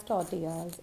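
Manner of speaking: tortillas as tor-TEE-yas; correct pronunciation. Shown as a demonstration. Teacher hoping learners say it so, correct pronunciation. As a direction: say tortillas with a y for the l's. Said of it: "you will definitely say it as".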